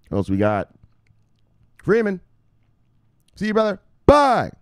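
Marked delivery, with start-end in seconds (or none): 1.8-4.5 hype shoutout. Acted. Shoutout to viewer.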